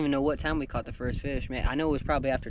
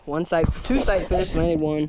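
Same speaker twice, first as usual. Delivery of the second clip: hyped up; 3 semitones higher, 5 dB louder than usual. Real, not acted. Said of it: "I'm hyped up, as you can tell".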